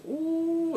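high, sustained "ooh" of impact; high drawn-out ooh. Retold or imitated. Recapping how hard it hit him, a high-pitched ooh. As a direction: let out a high, long ooh.

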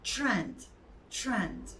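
"Trend," with a soft ch-like tr at the start; English pronunciation of trend. Shown as a demonstration. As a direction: say "Trend," the English way, tr close to chr. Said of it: "Trend değil".

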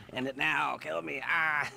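half-laughing, hammed-up despair; laughing fake anguish; laughing mock plea. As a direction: beg through a laugh, not meaning it.

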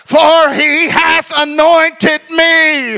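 slow, drawn-out scripture reading; x0.5 slow solemn reading; very slow proclamation. Retold or imitated. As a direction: stretch every word of it.

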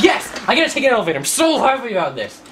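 high, loud hammed-up glee; mock happy. Gamer pretending elevator rides thrill him, mock excitement. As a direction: cheer with exaggerated joy. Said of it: "I'm, like, so happy".

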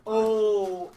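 loud excited oh; sudden surprised gasp. Real, not acted. Excited reaction to game question.

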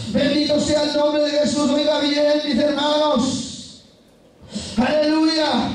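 chanted, full-force preaching; fervent tongues and praise. Real, not acted. Preacher blessing the name of Jesus, fervent praise. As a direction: pour it out on a ringing held pitch.

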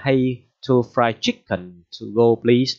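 slow, loud demo of ordering takeaway; customer ordering. Shown as a demonstration. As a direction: order food the way a customer would at the counter. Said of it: "Thì bạn bảo rằng là".

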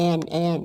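"and" said as "an", no final d; sounding out. Shown as a demonstration. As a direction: say "and" without its closing d sound. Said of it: "ออกเสียงเป็น".

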